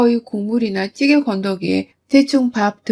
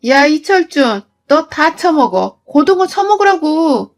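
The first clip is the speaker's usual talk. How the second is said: louder angry yell at the husband, rising; furious outburst; 3 semitones higher, 3 dB louder than usual. Acted. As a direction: hurl the words at him in rage. 며느리가 남편에게 소리침. (남편에게 큰 소리로 화내며 외치는)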